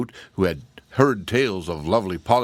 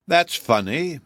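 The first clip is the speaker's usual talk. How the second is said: higher-pitched quick comeback; retorting; 7 semitones higher, 3 dB louder, slower than usual. A narrator's reading. Giantess answers Woot's refusal, retorting. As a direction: throw it back as a retort. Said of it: "she retorted".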